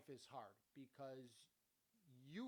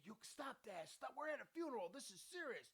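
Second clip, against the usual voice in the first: hammed-up motherly telling-off in a raised pitch; imitated scolding mother; 8 semitones higher than usual. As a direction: imitate a mother yelling, without the volume. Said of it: "My mother's yelling at me".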